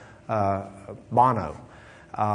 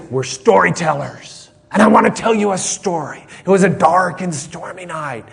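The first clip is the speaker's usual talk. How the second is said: loud, raised Texan storyteller drawl; 4 semitones higher, 5 dB louder than usual. Retold or imitated. Preacher retelling an Irish storyteller's opening, Texan drawl. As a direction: launch into a tale in a big Texan drawl. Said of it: "I will put it into Texan drawl".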